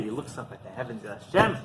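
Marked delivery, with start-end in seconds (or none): 1.1-1.6 high, loud cry to heaven; elated, soaring exclamation of thanks; acted excitement. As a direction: call up to God, overjoyed. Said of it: "He's so excited".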